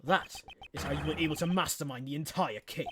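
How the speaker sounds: low, cool, measured prosecutor; cold prosecutor. Acted. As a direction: lay it out coldly, piece by piece. S0 voices Edgeworth.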